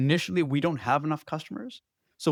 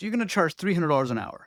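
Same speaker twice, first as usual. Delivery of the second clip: put-on confident, self-assured, no-doubt tone; 3 semitones higher than usual. Retelling a consultant friend's advice on what to charge: imitating a confident tone. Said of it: "he's so confident about this".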